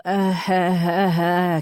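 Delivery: mock sobbing gasps; imitated bawling. A narrator's reading. Mother describes her dreadful crying, imitated sobs. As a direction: imitate a run of understated sobs. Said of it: "that dreadful".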